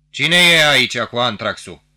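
loud, ringing call across the room; resounding voice. A narrator's reading. Young officer calling out to waiting petitioners, resounding. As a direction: call it out to the whole hall. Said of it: "rosti cu o voce răsunătoare".

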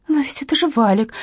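half-sobbing plea, lightly voiced; mild sob. A narrator's reading. Katya recognizes her husband, a mild sob. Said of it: "всхлипнула Катя".

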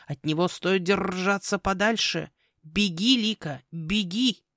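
slow, urgent croak with rolled r's; ominous raven. Acted. Raven urging the girl to run, ominous croak. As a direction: draw out the warning to flee. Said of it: "никогда не говорил таким тоном".

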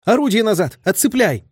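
excited command. A narrator's reading. Lieutenant commanding crew under fire, excited shout. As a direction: bark the order excitedly. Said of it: "скомандовал лейтенант Прошин".

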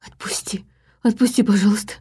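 whispered, sobbing begging; a terrified man pleading to be let go; sobbing plea. A narrator's reading. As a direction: beg through tears, barely voiced. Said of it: "всхлипнул Ильин".

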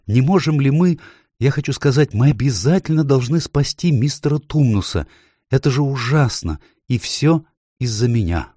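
lightly voiced girl, high and urgent; a child begging for help, guilty; pleading girl. A narrator's reading. Lucy begs the Beavers to save Mr Tumnus, pleading.

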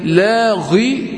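لاغي stretched with a heavy غ; wrong heavy ghayn. Shown as a demonstration. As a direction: show the faulty thick ghayn in لاغي. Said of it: "لا، لاغي". (لاغي بغين مفخمة خطأً)

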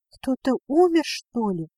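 выше и громче, нарочито бодро; храбриться, скрывая страх; напускная бравада. Acted. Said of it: "бодрилась моя глупышка". (дочка храбрится перед матерью, выше и громче)

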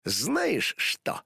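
teasing sly question; a sly, playful challenge. Acted. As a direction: tease her with a knowing tone. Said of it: "хитро улыбнулся Суперкот".

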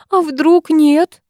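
high, very slow plaintive wail; lamenting. A narrator's reading. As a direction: drag it out like a keening lament. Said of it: "запричитала Роза".

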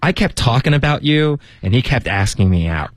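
put-on high-pitched gossipy girl complaint; Gossip Girl style. Teacher acting out a girl's complaint about a guy, Gossip Girl style. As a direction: dish it like a teen-drama girl, starting high. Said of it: "这口气简直不得了，完全是Gossip Girl的那个".

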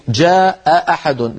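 "جاء أحد" with both glottal stops sounded; long ā in "جاء", separate catch on "أحد"; two full hamzas. Shown as a demonstration. Teacher pointing out two hamzas, "جاء أحد" fully articulated. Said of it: "التقى همزتان".

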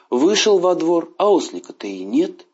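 ordinary delivery

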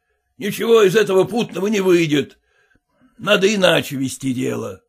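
plain reading voice

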